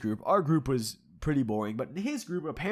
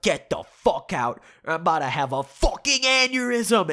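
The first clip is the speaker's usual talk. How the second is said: mock furious scream; 5 semitones higher, 5 dB louder than usual. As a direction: imitate a roommate screaming himself into a fit. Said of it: "at the top of his lungs".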